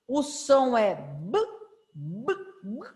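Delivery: the bare consonant sound of B, no vowel after; isolated B sound, without the E; letter sound B. Shown as a demonstration. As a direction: say B as just the lip pop /b/. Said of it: "O nome da letra é B".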